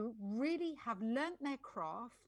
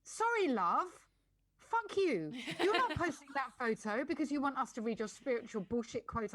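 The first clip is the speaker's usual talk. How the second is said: indignant rant; 3 semitones higher, 5 dB louder than usual. Real, not acted. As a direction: tell off the show-off with relish. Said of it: "Sorry, I'm ranting now".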